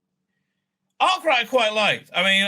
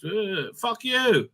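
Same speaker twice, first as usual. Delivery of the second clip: slow contempt; much slower than usual. Real, not acted. Answering imagined critics.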